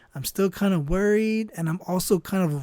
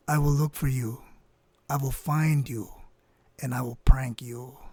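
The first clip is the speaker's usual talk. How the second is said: mock menacing vow; 5 semitones lower than usual. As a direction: play-act a movie threat, sinking into a whisper. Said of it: "I hold it close to my face".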